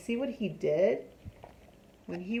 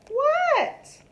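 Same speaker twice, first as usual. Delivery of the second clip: annoyed shout; 7 dB louder than usual. A narrator's reading. Froggy annoyed answer.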